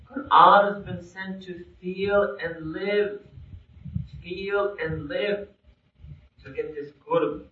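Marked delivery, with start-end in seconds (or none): 0.1-3.2 slow, weighty, every word placed; slow emphatic. Shown as a demonstration. Preacher to listeners, slow weighty emphasis. Preacher stressing the point slowly. 4.2-5.5 very slow and softer, rising on Feel; soft slow echo. Shown as a demonstration. Preacher echoing to listeners, soft slow repetition. Preacher echoes her point.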